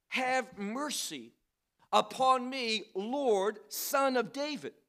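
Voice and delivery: understated cry out to the Lord; quoted crying out. Retold or imitated. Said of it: "She cries out to him".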